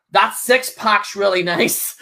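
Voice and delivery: slow, lightly put-on flirting; a hint of a flirty heel; mock flirty compliment. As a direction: drawl the compliment teasingly. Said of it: "he's like".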